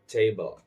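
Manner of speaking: "table" with TA stressed; stress on first syllable. Shown as a demonstration. Teacher showing learners the word table, first syllable stressed. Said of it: "notice how I say table".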